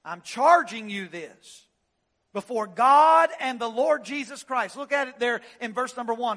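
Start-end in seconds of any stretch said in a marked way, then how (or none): 0.0-4.8 sermon delivery with weight on charging; preaching. Acted. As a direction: lay the charge on them like Paul. Preacher reads Paul's charge.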